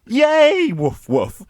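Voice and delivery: yappy cartoon dog. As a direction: bark like a cartoon pup. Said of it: "Saturday morning cartoon".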